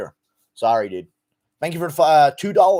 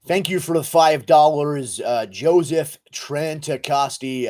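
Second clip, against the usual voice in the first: put-on slower retake in an American accent; 4 dB louder, slower than usual. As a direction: read it out like an American. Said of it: "Guru is American. Yeah, I am, dude".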